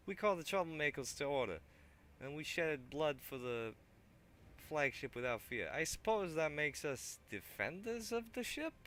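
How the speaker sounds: thug voice. Acted. Thug eyes the weapon rack, loud put-on voice. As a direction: keep the thug voice going.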